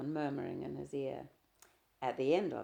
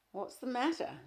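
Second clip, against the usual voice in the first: harsh; 9 semitones higher than usual. A narrator's reading. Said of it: "My voice sounded harsh".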